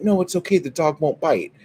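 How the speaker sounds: high-pitched imitation of a dismissive dog owner; mock reassurance. Dog owner reassuring the screaming kid, high mock reassurance.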